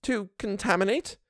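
lost at a big word; puzzled housekeeper. A narrator's reading. Housekeeper echoes governess, baffled. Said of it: "My big word left her at a loss".

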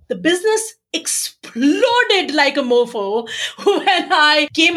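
slow, laughing through the words; real laughter, drawn out. Real, not acted. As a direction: let the laugh spill into the brag, slowly. Laughing while telling success.

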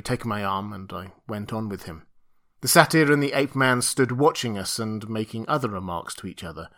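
ordinary delivery

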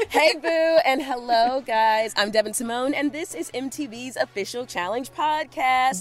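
recorded inside a closet; muffled, boxed-in sound. Real, not acted. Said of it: "why I sound a little different this week".

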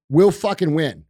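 usual speaking voice

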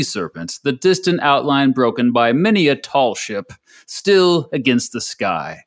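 put-on a light Early American accent for a reading. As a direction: recite Thoreau in a mild Early American accent. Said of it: "Early American accent, of course".

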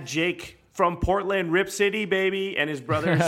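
high, loud hype call; hyped shout-out. Real, not acted. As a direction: shout out like an announcer.

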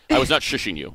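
talking through the hiccups. Real, not acted. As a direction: hiccup between words. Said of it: "I have the hiccups".

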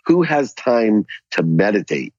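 mildly scolding, stretch the rhetorical question; laying into her. Retold or imitated. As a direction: re-enact an arrogant put-down, unhurried. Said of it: "I literally laid into this lady".

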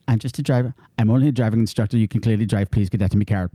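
low, lightly Irish dismissal; Rose. Acted. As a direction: play a driving instructor sending someone away. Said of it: "She says".

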